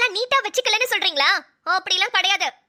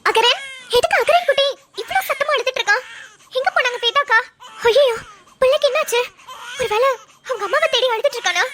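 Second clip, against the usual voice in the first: concerned aunt; 3 semitones higher than usual. Acted. Aunt finds baby crying loudly.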